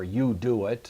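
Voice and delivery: "you" stressed, carrying the emphasis. Shown as a demonstration. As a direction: lean on the word "you". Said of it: "the emphasis there on the".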